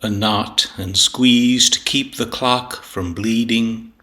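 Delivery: slow, measured verse recitation with deliberate pauses; poetry reading. Acted. Poet reading a sonnet on time and tears, measured recitation. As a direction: recite it deliberately, weighing each phrase. Reads own poem aloud.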